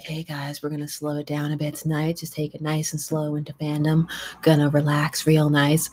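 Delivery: radio DJ voice. Pretend. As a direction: ease them in like a mellow night DJ. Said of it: "That's my radio D J voice".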